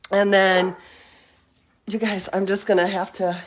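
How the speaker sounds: breathless from walking outside; out of breath. Real, not acted. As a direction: talk while short of breath. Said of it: "oh, I'm out of breath already".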